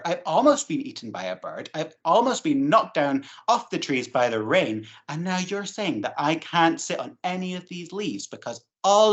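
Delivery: a touch of exasperation, listing her troubles; upset caterpillar. Acted. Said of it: "And Belinda thought".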